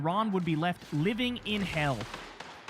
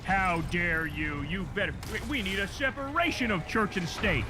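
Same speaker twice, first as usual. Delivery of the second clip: mock outrage. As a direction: drag out the fake indignation. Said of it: "they're like".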